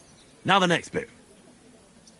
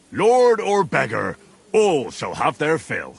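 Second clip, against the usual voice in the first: mock royal decree. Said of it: "How does it all sound together?".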